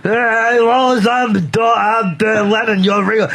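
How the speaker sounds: a hint of a flustered caller; mocking the caller. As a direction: stumble through it like a starstruck fan. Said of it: "he acts like the guy just fucking told Woody Allen's moose bit".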